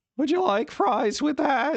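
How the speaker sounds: put-on squeaky, high-pitched teenage boy voice. Impression of the squeaky teen guy from The Simpsons: squeaky Simpsons teen voice. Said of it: "squeaky teen guy from The Simpsons".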